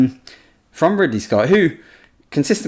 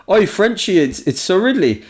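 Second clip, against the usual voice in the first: a hint of a brash northern director, higher; Ridley Scott impression; 7 semitones higher than usual. Ridley ringing the young advisor, lightly voiced brash greeting. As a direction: call out to him like a cocky boss on the phone. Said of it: "not as good at accents as you are".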